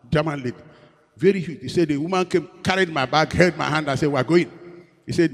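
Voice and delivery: loud, high, excited retelling; building story energy; animated storytelling. Real, not acted. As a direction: tell it with rising excitement.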